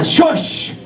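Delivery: sharp whispered shush; whispered shush to a nosy stranger; hushing whisper. Acted. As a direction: hush him urgently in a whisper. Villagers hush Anansi.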